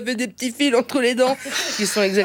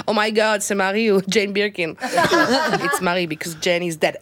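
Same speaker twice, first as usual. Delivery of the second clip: put-on English accent; 3 semitones lower than usual. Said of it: "j'imite vraiment mieux l'accent anglais".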